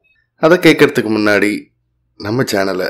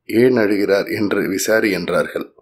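measured devotional storytelling, each sentence opening lifted; story narration. A narrator's reading. Narrator telling devotees of Maha Periyava's miracle, in story narration. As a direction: narrate it as a devotional tale, with clear pauses.

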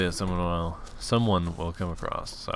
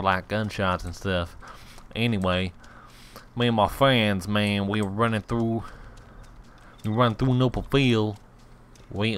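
put-on hillbilly accent. Gamer recalling friends dropping in an open field, hillbilly accent. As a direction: tell it like a backwoods American. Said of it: "my best accent is a hillbilly American accent".

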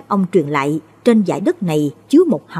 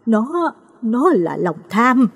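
slow, halting, choked with tears; grieving mother answering her daughter through tears; sobbing; 5 semitones higher, much slower than usual. A narrator's reading. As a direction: force the words out through sobs. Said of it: "mà nức nở".

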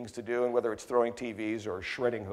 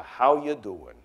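Joe's greeting; 4 dB louder, slower than usual. Retold or imitated. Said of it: "That's Joe's whole signature line".

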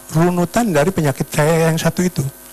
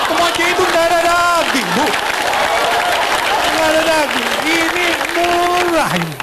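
Madurese seller; 12 semitones higher than usual. Retold or imitated. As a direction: insist like a market seller from Madura. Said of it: "orang Madura kalau jualan kan begitu". (pedagang Madura, nada tinggi, ngotot)

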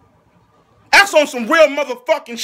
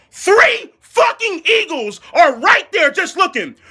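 laughing; 3 semitones higher than usual. Real, not acted. Laughing at the defense.

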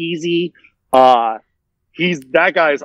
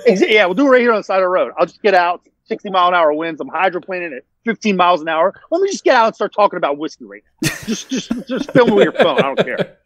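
retold hurried exasperation; 3 semitones higher than usual. Retelling the roadside storm shoot, hurried exasperation. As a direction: rattle it off, pitched up.

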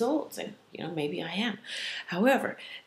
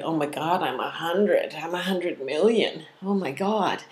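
louder, hammed-up aching moan; mock groaning complaint; 5 dB louder than usual. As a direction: complain like someone achingly old, half in jest. Imitates herself walking around in pain.

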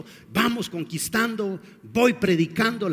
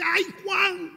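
grieving sigh; 11 semitones higher than usual. Acted. Jesus grieving over John's head.

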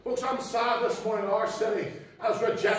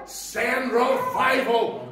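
loud fervent prayer; 5 dB louder, much slower than usual. Shown as a demonstration. Preacher showing the church how to pray, loud and fervent. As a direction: cry out "Lord" at full voice, then slow on "send revival".

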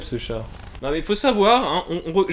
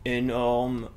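slow, soft robot announcing itself; 2 semitones lower, 5 dB quieter, much slower than usual. Acted. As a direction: boast like a slow clunky robot. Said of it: "C'est un robot".

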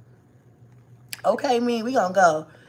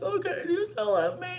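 put-on sweet little girl voice; 9 semitones higher, 5 dB quieter than usual. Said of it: "She'd be like".

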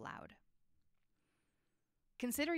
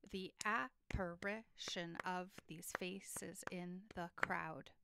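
slowly, tapping out each syllable; slow syllable count; slower than usual. Shown as a demonstration. Teacher counting syllables for the class, slow and even. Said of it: "Let's count the syllables in each line".

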